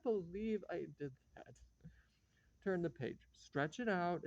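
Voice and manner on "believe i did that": whispered to herself in shame; ashamed whisper. Acted. Whispering to herself after steamrolling the guest, ashamed. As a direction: breathe it out, barely voiced, mortified.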